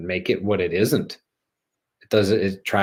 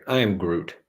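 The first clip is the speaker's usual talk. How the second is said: Groot line. Pretend. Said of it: "Groot impression".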